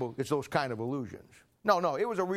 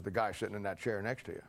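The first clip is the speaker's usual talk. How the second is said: mild hushed quote; 7 semitones lower, 7 dB quieter than usual. Retold or imitated. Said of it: "He says".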